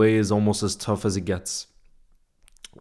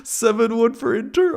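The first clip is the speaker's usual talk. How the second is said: incredulous; 12 semitones higher, 4 dB louder than usual. Real, not acted. Reacting to a chat prediction.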